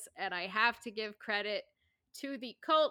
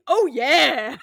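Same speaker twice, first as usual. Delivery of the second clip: cheery Hagrid; 4 semitones higher, 11 dB louder than usual. Retold or imitated. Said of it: "with a very positive attitude".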